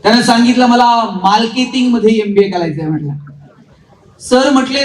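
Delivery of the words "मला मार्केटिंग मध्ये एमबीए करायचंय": imitated boy who says every r as l; childlike speech defect, r becomes l; lisping classmate. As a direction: lisp it, turning "मार्केटिंग" into "malketing". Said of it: "ते र ला ल म्हणायचं".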